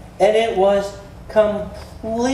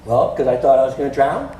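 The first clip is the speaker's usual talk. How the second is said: lower, sheepish reply; sheepish disciple; 6 semitones lower, 3 dB louder than usual. Acted. Disciple excusing himself to Jesus, lower and sheepish. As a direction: answer like a caught student. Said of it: "disciple answering Jesus".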